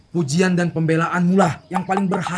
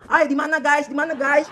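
video call pura-pura; 6 semitones higher than usual. Pretend. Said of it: "kau bisa video call".

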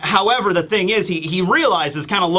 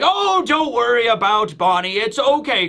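tag reassuring royals; 5 semitones higher than usual. Retold or imitated. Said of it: "King Bulldog and the Queen Dowager, uh, Connie, are like".

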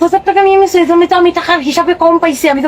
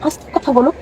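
hushed; 3 semitones lower, 5 dB quieter than usual. Acted. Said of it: "আস্তে কথা বলতে পারো না".

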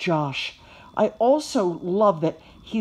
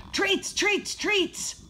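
barking puppies; 13 semitones higher, much slower than usual. A narrator's reading. All the puppies after spilled treats, barking. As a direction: yap the word over and over. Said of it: "all the puppies are barking".

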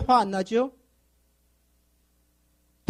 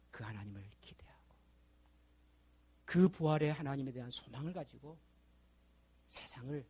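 much softer, low blessing that fades to a whisper; hushed benediction; 8 semitones lower, 11 dB quieter than usual. Acted. Pastor blessing his church before prayer, hushed benediction. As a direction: bless them gently, dropping into a whisper.

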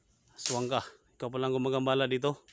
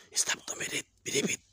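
rapid hushed prayer; whispered incantation. Acted. Exorcist whispering a prayer against the aswang. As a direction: breathe the spell.

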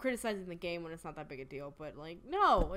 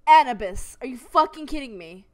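loud, exasperated yelling; frustrated shout; 4 semitones higher, 15 dB louder than usual. Real, not acted. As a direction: bellow it in disbelief. Repeating name in frustration.

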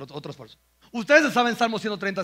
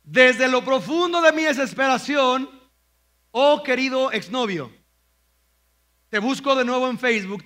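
hammed-up heartbroken plea; mock lament to ex; 3 dB louder than usual. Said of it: "ahí te va otra". (parodia del lamento al exnovio, exagerada)

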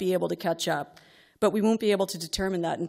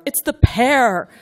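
high, much louder slow yell on pear; imagined shout; 6 semitones higher, 11 dB louder, slower than usual. Retold or imitated. Mother silently urging daughter during test, slow frustrated shout. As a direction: blurt the answer out in frustration. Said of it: "I want to blurt out".

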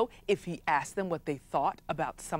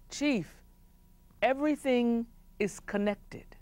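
solemn wise man; 5 semitones higher, 4 dB quieter than usual. Acted. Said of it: "that wise man said".

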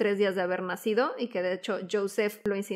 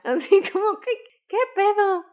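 laughing disbelief; 9 semitones higher, 4 dB louder than usual. Real, not acted. Laughing at the mother's naivety.

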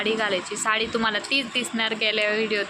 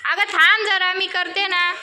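calling out; 8 semitones higher, 6 dB louder than usual. Real, not acted. Stopping the child mid-makeup.

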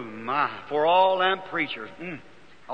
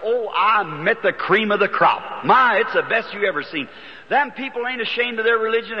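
higher, gushing report to his wife; happy; 5 semitones higher than usual. Retold or imitated. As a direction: brag delightedly about new friends. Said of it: "Why you sound so happy".

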